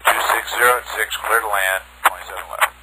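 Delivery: crackling radio transmission; radio static bursts. Real, not acted. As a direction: bursts of static over words. Pilot over crackling radio.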